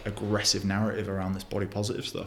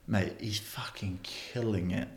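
hushed aside; 6 dB quieter, much slower than usual. Real, not acted. Admiring aside about a TikToker.

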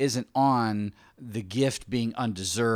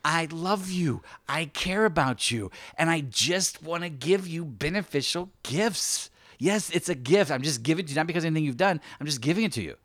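pleading, earnest voice, pitched a little higher; God; 4 semitones higher than usual. Acted. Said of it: "I feel like God is saying".

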